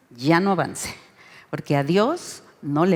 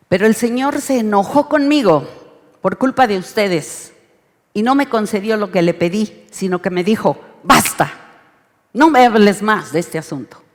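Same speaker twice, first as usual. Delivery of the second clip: louder, stern reading of God's reply; angry reading; 2 semitones higher, 4 dB louder than usual. Shown as a demonstration. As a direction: read it with force, "Basta" hit hard. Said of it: "para que vean el impacto de esto". (lectura fuerte y enojada)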